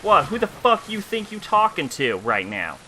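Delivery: punchy taunts in a put-on ghetto-country accent. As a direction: square up to them in a half-ghetto, half-country accent. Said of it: "halfway between ghetto and country".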